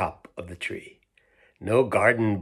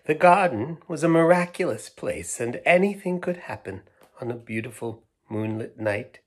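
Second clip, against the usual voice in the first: put-on higher, louder wistful old woman; 3 semitones higher, 3 dB louder than usual. Old woman telling children about her garden, wistful. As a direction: remember it like a fond dream.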